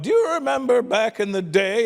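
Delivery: lightly voiced old woman, rising question; a hint of a sweet old lady reminiscing. Comic imitating an old woman asking a stranger about the past, lightly voiced. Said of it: "eighty-five-year-old woman will be like".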